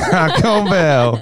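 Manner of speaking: slow, drawn-out American Taco Bell; mock American accent, drawn out. Shown as a demonstration. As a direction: drawl it like an American ad. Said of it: "American accents".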